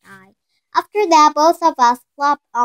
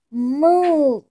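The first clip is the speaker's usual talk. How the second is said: put-on baby moo; 4 semitones higher than usual. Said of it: "all he keeps saying".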